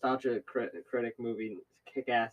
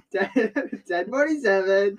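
mocking uptalk; 6 semitones higher, 6 dB louder, slower than usual. Friend imitates the mockery.

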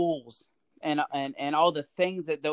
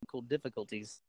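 faint, distant phone line; call dropping out; 4 semitones lower, 9 dB quieter than usual. Real, not acted. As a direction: voice fading on a bad connection. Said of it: "You're kinda breaking up".

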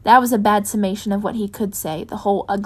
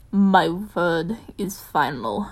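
slow, rough Batman growl, lower; rough, rock-like; 3 semitones lower, much slower than usual. Acted. Bruce turning to his rough rock-like voice. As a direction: grind the words out like rock. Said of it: "letting his voice shift into something rough, rock-like".

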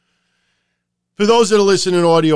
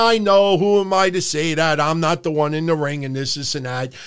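normal talking voice

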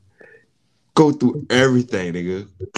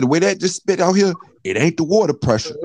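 a hint of the plumber; 10 semitones higher, 3 dB louder than usual. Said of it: "he said".

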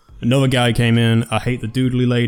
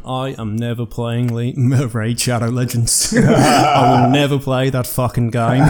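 imitating the host's slow, laughing vow never to play; drawn out and half laughing, mimicking Australian host James; mock vow; slower than usual. James from the podcast swearing off the game, slow and laughing. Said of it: "the Weekly Planet just keeps going".

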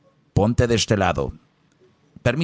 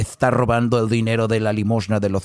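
priest voice. Acted. Priest voice in confession joke.

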